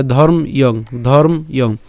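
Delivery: "ধর্ম ইয়ং" broken as dhorm, then i-ong; split pronunciation. Shown as a demonstration. Teacher breaks the word for learners, "ধর্ম ইয়ং" as dhorm plus i-ong. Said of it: "ম হসন্ত পর্যন্ত উচ্চারণ করি".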